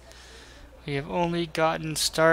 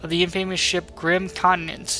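louder dramatic quest read; lightly voiced quest giver; 7 dB louder than usual. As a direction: announce the bounty with gusto. Reads bounty quest text.

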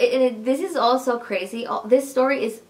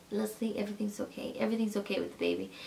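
soft retold comfort, hushed; gentle reassurance; 8 dB quieter, faster than usual. Husband tells his wife the baby is fine, reassuring. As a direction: quote him quietly, settling her worry.

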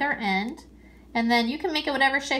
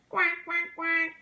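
higher, lightly done quack; duck quacking; 6 semitones higher than usual. Shown as a demonstration. Teacher quacks like a duck for kids. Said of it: "What does a duck say?".

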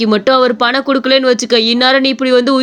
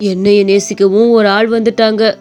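put-on a lower old man's voice, moved; touched old shopkeeper; 4 semitones lower than usual. Shopkeeper thanks the boy who will care for him, lower old man.

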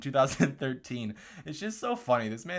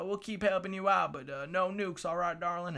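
indulgent appeaser; 7 semitones higher than usual. Acted. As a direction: placate them like a doting pushover. Past administrations voiced appeasing North Korea.

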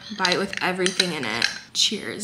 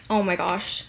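overwhelmed by cuteness; 2 semitones lower than usual. Real, not acted. Seeing new baby photos.

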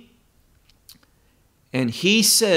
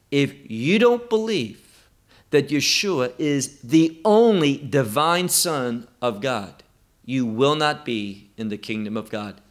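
solemn, deliberate warning, dropping lower toward the end; very serious; 3 semitones lower than usual. Real, not acted. Preacher warning listeners about the kingdom, very serious. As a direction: press it home as a grave truth. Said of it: "very seriously to you".

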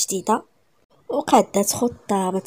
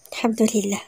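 ordinary delivery, nothing marked

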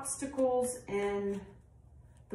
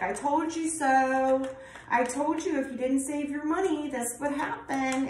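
scolding I told you so; 5 semitones higher than usual. Retold or imitated. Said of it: "It's like".

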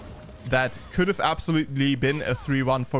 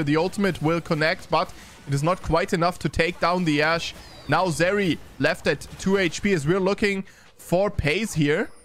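lightly animated esports commentary; game caster keeping up with the action; live play-by-play; 3 semitones higher than usual. Real, not acted. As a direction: call the team fight as it unfolds.

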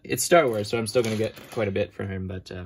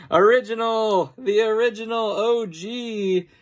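excited; 9 semitones higher, slower than usual. Real, not acted. Excited find while unboxing figures.

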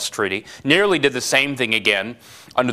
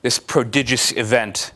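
dramatic parable reading. Acted. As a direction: read it like a grave old fable. Reads Nietzsche's parable aloud.

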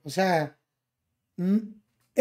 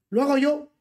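mocking a hypocrite; 4 semitones higher than usual. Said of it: "la plataforma más hipócrita del mundo".

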